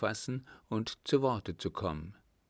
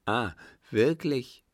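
louder, drawn-out indignant question; acted outraged countess, higher and slow; nearly beside herself; 4 semitones higher, 6 dB louder than usual. A narrator's reading. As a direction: exclaim in contained rage. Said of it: "beinahe außer sich vor Zorn".

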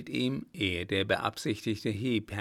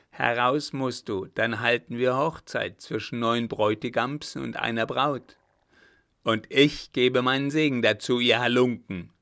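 loud, scornful challenge; hero's defiant call; 6 dB louder than usual. Acted. Königsau mocks the robbers, loud defiant challenge. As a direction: throw the words at the bandits before firing.

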